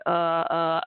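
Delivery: retold numb-mouthed stammer. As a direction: imitate grunting through a numbed mouth. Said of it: "my mouth went kinda numb".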